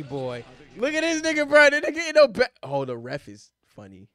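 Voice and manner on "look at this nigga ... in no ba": excited. Real, not acted. Excited pointing at fan.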